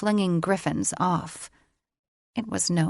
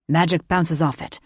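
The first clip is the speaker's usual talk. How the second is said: strained male voice; 4 dB louder than usual. A narrator's reading. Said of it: "through a clenched jaw".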